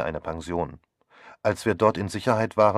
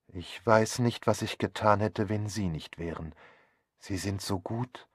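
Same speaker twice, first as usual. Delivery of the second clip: tearful gratitude. Acted. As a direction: thank her haltingly, close to tears. Wife tearfully thanks her helper. (gerührt und langsam, leiser werdend)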